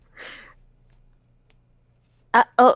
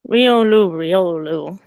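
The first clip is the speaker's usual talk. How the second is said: Pokémon voice; 3 dB louder than usual. Acted. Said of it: "hugs herself a little bit and says".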